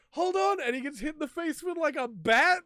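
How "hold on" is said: high, loud, hammed-up "hold on"; panicked yell. Hero hit by ball after ball yells for a pause, high panicked mock yell. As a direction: yell it as if the next ball is already flying. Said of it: "he goes".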